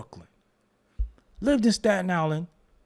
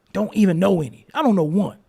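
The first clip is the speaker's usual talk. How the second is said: emphatic insistence; 3 semitones higher, 6 dB louder, faster than usual. Real, not acted. Insisting loyalty.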